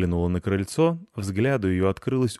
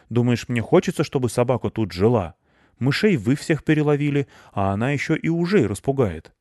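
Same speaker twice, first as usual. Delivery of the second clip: higher, louder grumbling reproach; indignant complaint; 5 semitones higher, 5 dB louder than usual. A narrator's reading. Hedgehog blaming the cats about the dog, indignant.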